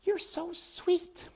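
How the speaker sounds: high, slow, sweet princess voice; the princess cooing to Despero, high and sweet. Acted. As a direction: coo it like a doting princess. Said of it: "said the princess".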